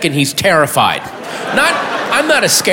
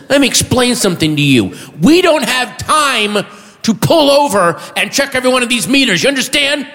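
mildly hammed-up angry officer, rising higher; furious officer lecture; 6 semitones higher than usual. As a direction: lecture a driver with mounting indignation. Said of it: "then he's furious".

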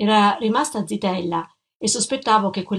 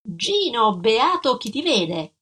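slow, hopeful greeting; light up at seeing him; a touch of eager hope; 2 semitones higher, slower than usual. Acted. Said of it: "Disse speranzosa".

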